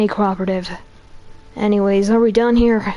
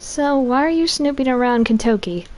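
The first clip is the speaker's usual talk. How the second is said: man doing a woman's voice, detective; lightly voiced tough policewoman; police lady voice. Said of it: "here comes my police lady voice".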